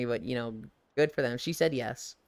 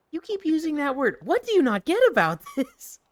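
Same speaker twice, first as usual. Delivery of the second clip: sketch character; 11 semitones higher, 3 dB louder than usual. Retold or imitated. Sketch banter continues.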